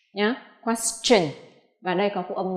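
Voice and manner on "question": "question" slowly, with a clear ch; ch sound. Shown as a demonstration. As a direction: model "question" ending in chen. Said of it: "nó phát âm là âm ch".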